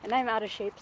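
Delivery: winded after sprinting; panting between words; out of breath. Real, not acted. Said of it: "so if I'm out of breath".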